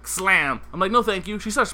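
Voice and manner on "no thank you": polite. Retold or imitated. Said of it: "all polite".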